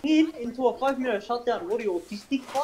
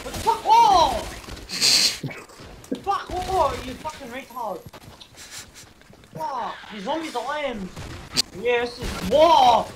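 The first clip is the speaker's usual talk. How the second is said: swearing tirade; 3 semitones higher than usual. Real, not acted. Raging at zombies while gaming.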